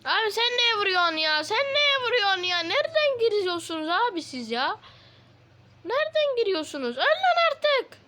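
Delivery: high, loud exasperated shouting at the mobs; shrieking in frustration; frantic yelling. Real, not acted. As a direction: yell at them in panic. Fighting off attacking mobs.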